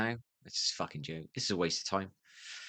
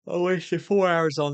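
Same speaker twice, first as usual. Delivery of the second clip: louder and higher, slow and drawn out, leaning on four; exasperated outburst; 9 semitones higher, 7 dB louder, slower than usual. Real, not acted. To viewers, venting about a gadget, loud exasperated repeat. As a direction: let the frustration burst out over the wasted hours.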